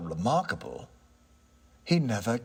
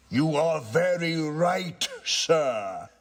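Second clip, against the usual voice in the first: slow, higher, struck by the idea; a touch of ghost voice; 6 semitones higher, slower than usual. Acted. Ghost, surprised by the tenant's point, agrees slowly. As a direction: muse it as a dawning realisation.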